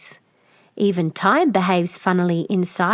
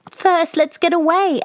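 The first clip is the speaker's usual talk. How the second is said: almost in tears; 10 semitones higher, 3 dB louder than usual. Acted. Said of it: "almost in tears".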